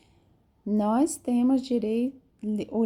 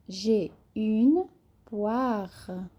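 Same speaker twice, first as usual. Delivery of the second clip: slow J'ai une poire with a rasped R in poire; slow teacher demo; slow model reading; much slower than usual. Shown as a demonstration. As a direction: stretch it out slowly. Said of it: "Ra, ra, como se fosse ra de rato".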